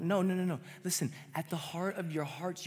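high, loud preaching climax; impassioned pulpit cry; preaching at full force. Real, not acted. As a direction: push it out with fervour, building.

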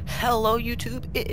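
excited greeting. Real, not acted. Channel intro greeting.

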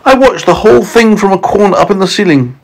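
high-pitched, lightly mournful spider; high character voice, mildly grieving; murmuring Miss Spider. A narrator's reading. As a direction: recall it in a high storybook voice, a touch woeful. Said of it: "Miss Spider murmured".

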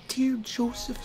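ordinary delivery, nothing marked

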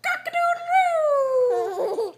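high, slow crowing cock-a-doodle-doo; rooster crow. Acted. Reading to a child, crowing like a rooster. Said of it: "He could sound like a rooster".

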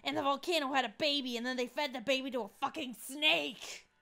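a mild strained metal yell; hoarse metalhead yell. Acted. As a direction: scream it like a metalhead losing it. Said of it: "Damien's voice hurts".

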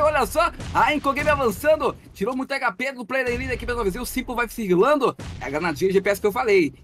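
live play-by-play. Acted. Casts the match live.

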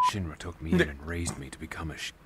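flat deadpan line read. Acted. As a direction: say it dead flat, no emotion. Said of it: "it's just so deadpan".

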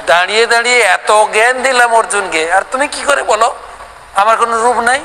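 lightly voiced Krishna chiding a dull devotee; voicing God scolding. Krishna teasing the doubter who denies his form, mock scolding. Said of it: "ভগবান এই জন্য বলেছেন".

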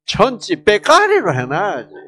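Gyeongsang dialect phrase 천지 빼까리로, said loudly with a falling end; a hearty Gyeongsang-style exclamation; 경상도 사투리로. Shown as a demonstration. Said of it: "경상도 말로 어떻게?".

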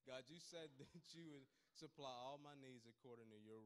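loud, deliberate prayer said for all to hear; praying out loud. Retold or imitated. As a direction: read the verse back to God loudly. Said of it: "this really loud so he could hear it".

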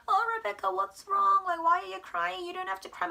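put-on high, sing-song teacher voice soothing a child; teacher cooing to crying child. Teacher soothing crying little Rebecca, high and sing-song. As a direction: coo down at a crying kid in a high voice. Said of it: "나한테 막".

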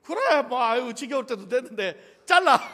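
high, loud, laughing dismissal; the king tossing away his queen with a laugh; careless king. Retold or imitated. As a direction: wave it off like a bored king. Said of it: "아하수에로".

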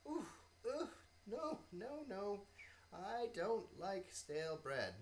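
lightly voiced little bee. Bee refuses stale bread.

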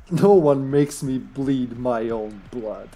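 slow mock villain line. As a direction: say it slowly like a hammy killer. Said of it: "sounds like something Johnny would say".

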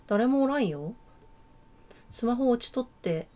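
put-on a light, amateur Kansai accent; casual Kansai-dialect girl, lightly voiced. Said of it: "関西弁か？". (軽めの関西弁)

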